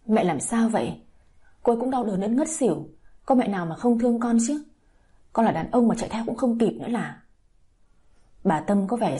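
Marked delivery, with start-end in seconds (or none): 0.1-7.2 mild snap. Acted. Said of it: "Anh gắt nhẹ bà Tâm".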